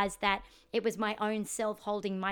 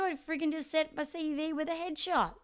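laughing; 6 semitones higher than usual. Real, not acted. Laughing at own failed application.

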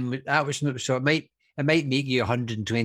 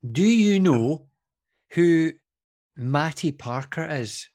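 put-on Texas accent; slower than usual. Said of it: "long, drawn Texas accent".

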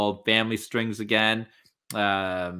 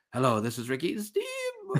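stiff, higher promo voice; awkward promo voice; 8 semitones higher, 4 dB quieter than usual. Retold or imitated. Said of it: "all of a sudden he's like".

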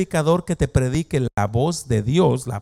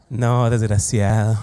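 laughing insult; 4 semitones lower, slower than usual. Shown as a demonstration. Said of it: "así con esa cara, dile".

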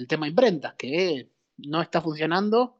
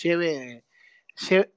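hyped fairground barker; slower than usual. Pretend. Hawking comics like street seller.

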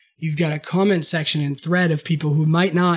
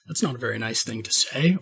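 mock prim; 7 semitones lower, 6 dB quieter than usual. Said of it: "by saying".

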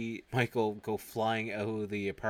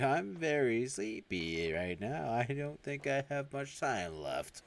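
very slow and drowsy; slow sleepy voice; 4 semitones higher, much slower than usual. Retold or imitated. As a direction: drag the words out, fading away. Acted quote of a dying brain.

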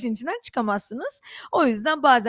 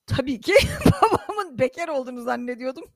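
laughing. Real, not acted. Güle güle anlatıyor.

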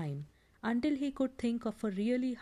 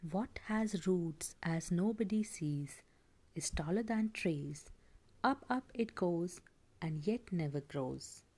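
Gollum's slow breathy hiss; hissing whisper; 2 semitones lower than usual. Acted. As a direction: hiss the riddle slowly, creature-like. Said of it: "Gollum hissed".

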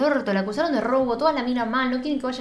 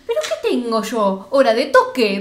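slow indignant question, building louder; retold annoyance; 4 dB louder, slower than usual. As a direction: imitate an exasperated complaint, drawn out. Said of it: "Flor no la ves enojada nunca". (indignación imitada, cada vez más fuerte)

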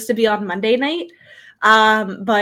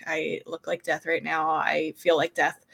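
swollen tonsils voice, rough and tired; sore throat voice; 3 semitones lower, 5 dB quieter than usual. Real, not acted. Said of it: "I have a really bad sore throat".

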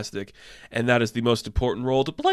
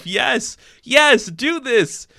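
excited begging; 10 semitones higher, much slower than usual. Real, not acted. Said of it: "pleading for Muppet spinoff".

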